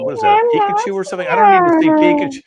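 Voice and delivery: high, fast, loud shriek of disbelief; a professor shrieking at a student in costume; shocked shriek. Acted. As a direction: squeal it out like you can't believe your eyes.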